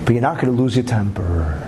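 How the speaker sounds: measured, controlled talking to himself; self-talk, keeping his temper. Retold or imitated. Husband telling himself to keep his temper, low and controlled. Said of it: "to himself".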